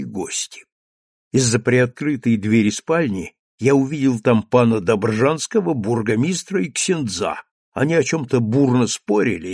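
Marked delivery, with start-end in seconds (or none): none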